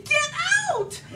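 laughing yell at an intruder; shouting at raccoon. Retold or imitated. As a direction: shoo it out with a yell. Chasing raccoon from garage.

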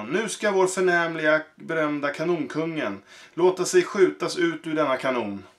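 sorry to tell the crowd the bad news; apologetic circus director. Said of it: "sa direktör Barino".

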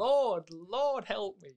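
high mock plea to heaven; exasperated leader. Gang leader despairing at his men's stupidity, high plea. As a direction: sigh it to the sky. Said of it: "he has this mannerisms".

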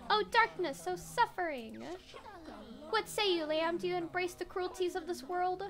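high, slow melodramatic reading; theatrical bat voice. Acted. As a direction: ham it up like a gloomy poet. Voicing the bat's dialogue.

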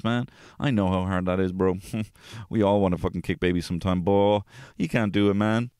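hammed-up easygoing bro voice; mock chilled out. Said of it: "chilled out".

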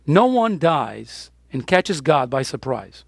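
slow and low, each word weighed; slow, grave pronouncement; slow solemn statement. Shown as a demonstration. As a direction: lay it down slowly like a verdict. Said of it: "I'm gonna say it again".

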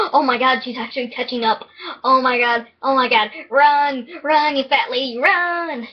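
loud panicked cries while fleeing; being chased. Real, not acted. Lady chasing him in game.

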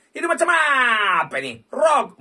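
loud, high cry of disbelief; exclaiming. Real, not acted. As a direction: wail at the screen. Reacting to a bad spin.

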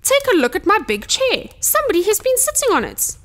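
indignant Father Bear, pitched high; big bear's outraged cry; gruff roar. A narrator's reading. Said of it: "roared Father Bear in his big, gruff voice".

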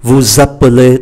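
"Vous appelez" linked as vou-zappelez; liaison. Shown as a demonstration. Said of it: "đọc nối". ("Vous appelez" đọc nối âm z)

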